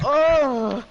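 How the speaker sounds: loud, high drawn-out "oh"; mock alarmed groan; retold groan. Reacting to her noise, retold.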